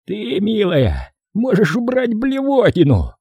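high, slow sarcastic jab; sneering snap. Acted. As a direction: spit it at her with scorn. Boss snaps at Brandy.

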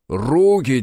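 metallic command. Acted. Armored Korobkov repeating his order, metallic bark. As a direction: bark the single word from inside the suit. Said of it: "прогудел металлический голос".

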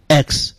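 "X" as "eks" with a small, short e; short vowel. Shown as a demonstration. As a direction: keep the e of "X" short. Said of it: "小的、".

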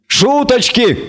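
high barked goat-man shout; goat barking. Acted. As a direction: bark the word like an angry goat. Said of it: "рявкнул Козерог".

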